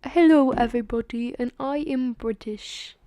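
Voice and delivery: loud greeting in a shaky-quality British accent; amateur mock-British accent; bad British accent. Shown as a demonstration. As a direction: attempt a British accent and miss. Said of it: "That is not a British accent".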